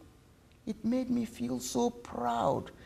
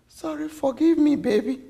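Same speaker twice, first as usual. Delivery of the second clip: higher, pleading apology on the edge of tears; tearful pleading; 6 semitones higher than usual. Acted. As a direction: beg forgiveness, tearfully. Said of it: "She sobbed until she finally burst into tears".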